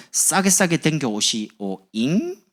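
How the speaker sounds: very slow, sing-song Jeolla with a rising 잉 at the end; 전라도 억양으로 끝을 잉 하고 올리며; Jeolla dialect. Shown as a demonstration. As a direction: stretch it out and hook the final 잉 up. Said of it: "끝에가 항상 이 잉 가더라고요".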